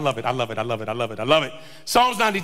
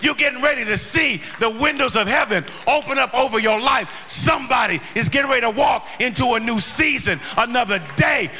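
full-force preaching. Real, not acted. Preacher stirring the congregation toward a new season, full-force preaching.

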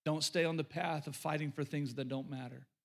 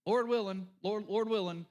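mimicking flippant phrase; 3 semitones higher than usual. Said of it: "they'd just say".

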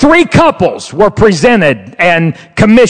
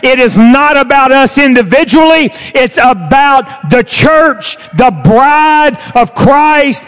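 emphatic preaching; 3 semitones higher than usual. Real, not acted. Preacher urging the church to move together, emphatic preaching. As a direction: drive each phrase home like a preacher.

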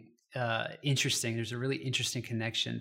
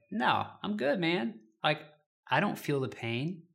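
higher, breezy denial; brushing it off; 5 semitones higher than usual. Retold or imitated. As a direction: wave off the friend's concern lightly. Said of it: "my first reaction was like".

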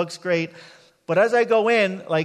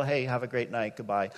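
cordial; 7 semitones lower, 7 dB quieter than usual. Retold or imitated. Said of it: "I'm cordial".

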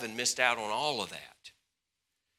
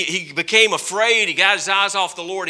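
ordinary talk, nothing marked

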